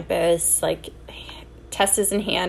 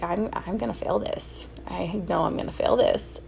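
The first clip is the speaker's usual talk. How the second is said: quiet despair; 5 dB quieter than usual. Retold or imitated. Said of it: "I was like".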